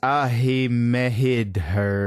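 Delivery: put-on slow, botched New York accent; bad New York accent. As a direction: read nonsense spellings as bad New York. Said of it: "speaking with really bad accents".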